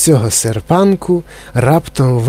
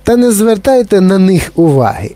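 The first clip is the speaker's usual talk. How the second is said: exclaiming; 7 semitones higher, 3 dB louder than usual. A narrator's reading. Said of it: "вигукнув містер Вонка".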